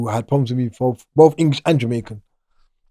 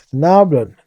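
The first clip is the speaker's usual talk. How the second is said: put-on Jamaican accent; 2 semitones higher, 4 dB louder, slower than usual. To the guy he was searching, answering in a Jamaican accent. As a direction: slip into a Jamaican accent, slow on God run things. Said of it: "talking to him Jamaican accent".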